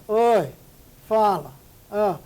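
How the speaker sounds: mock a bored, careless hello; lazy careless greeting. Shown as a demonstration. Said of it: "Cuidado, esse tipo de coisa não é permitida".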